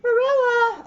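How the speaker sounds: high loud call over the banisters; plaintive call. Acted. Anne calling down to Marilla from upstairs, high and plaintive. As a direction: call down the stairs, pleading. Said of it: "a plaintive voice calling".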